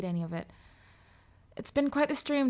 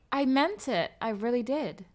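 usual speaking voice

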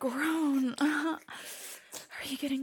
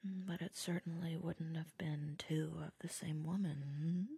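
whispering; 5 semitones lower, 8 dB quieter than usual. Acted.

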